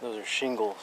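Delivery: talking around a mouthful of seeds; mouth full of seeds. Real, not acted. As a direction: speak while cracking sunflower seeds. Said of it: "Sorry, my mouth is full of sunflower seeds".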